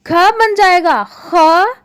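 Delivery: second ख said as a rasping kh, like Scottish loch; ख first plain, then ख as a scraped throaty x; nukta sounds. Shown as a demonstration. Teacher slowly showing pupils ख becoming a throaty kh. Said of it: "उच्चारण हम और ढंग से करेंगे".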